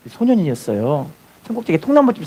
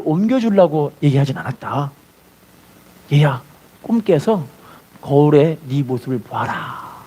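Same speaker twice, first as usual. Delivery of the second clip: gentle Jesus; 4 semitones lower than usual. Retold or imitated.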